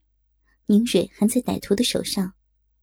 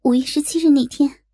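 higher-pitched, emphatic assurance; confident; 5 semitones higher, 4 dB louder than usual. A narrator's reading. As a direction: argue the case with full conviction. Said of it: "胸有成竹地说". (胸有成竹、语气坚定)

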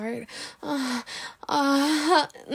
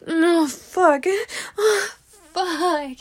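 climactic cry; 5 semitones higher, slower than usual. Acted. Climax moaning in roleplay.

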